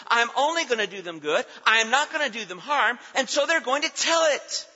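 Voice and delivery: high, emphatic pulpit delivery; ringing sermon proclamation; forceful preaching. Real, not acted. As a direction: preach it out with conviction.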